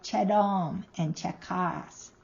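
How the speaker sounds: "chedom and chekas" slowly, stressing DOM and KAS; stress on next syllable. Shown as a demonstration. Teacher giving examples of shifted stress, second-syllable stress. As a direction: keep CHE light in "chedom" and "chekas", weight the second syllable. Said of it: "the stress falls on the next syllable".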